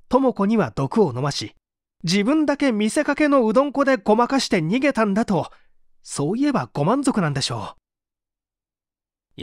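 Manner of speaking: fast, high, bitter mock confession; bitter sarcasm. Suspect to interrogator, bitterly sarcastic and fast. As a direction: throw the accusation back at him.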